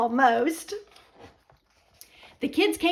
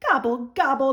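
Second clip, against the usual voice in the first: groaned; faster than usual. Acted. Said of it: "groaned Turkey".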